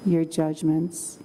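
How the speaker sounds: calm, slow meditation voice; guided meditation. Acted. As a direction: guide them gently into calm.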